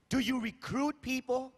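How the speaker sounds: recruit, pressed and deliberate; stress on recruit. Shown as a demonstration. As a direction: lean on the word recruit. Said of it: "I have to emphasize the word recruit".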